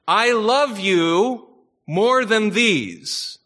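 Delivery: slow, lifted vow of love; Peter's devotion. Retold or imitated. Peter pledging love to his Lord, slow and lifted. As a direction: draw it out slowly like a heartfelt pledge. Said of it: "Peter is saying to his Lord".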